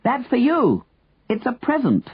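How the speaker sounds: high, carrying call without real volume. A narrator's reading. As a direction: call it down to someone far below. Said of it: "Henry shouted, cupping a hand".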